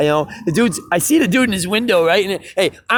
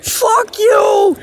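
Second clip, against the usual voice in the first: much higher, loud mock shout; retold shout; 5 dB louder than usual. Angry resident cursing at the musicians from above, high mock shout. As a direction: throw it at the street like an annoyed neighbor. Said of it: "you know, dude's like".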